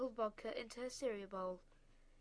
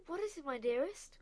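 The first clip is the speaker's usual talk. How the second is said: higher, timid nervous question; 5 semitones higher, 6 dB louder than usual. A narrator's reading. Frightened wife hiding from her husband, nervous. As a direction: ask it from behind the table. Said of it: "asked nervously".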